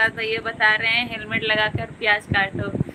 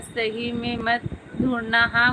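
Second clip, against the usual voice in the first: ordinary talk, nothing marked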